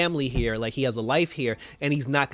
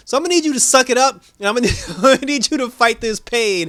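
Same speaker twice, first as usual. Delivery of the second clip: fired-up pep talk; 6 semitones higher, 6 dB louder, faster than usual. Retold or imitated. Irons pep talk to Superman.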